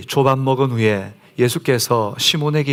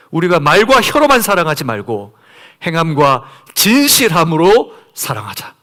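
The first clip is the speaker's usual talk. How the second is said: higher and louder, full-force sermon; fervent preaching; 4 semitones higher, 4 dB louder than usual. Acted. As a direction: drive the message home to the congregation. (높고 크게 힘차게 설교하는 목소리)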